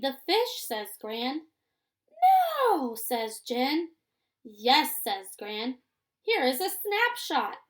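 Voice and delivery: lively storybook reading with character lines lifted; reading to children. A narrator's reading. Teacher reading a story to her class, lively and clear. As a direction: read it aloud like a picture book for young kids.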